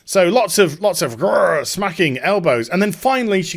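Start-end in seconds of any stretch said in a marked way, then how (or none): 1.2-1.6 short rolled "grrr"; mock growl for a scuffle; imitated fight growl.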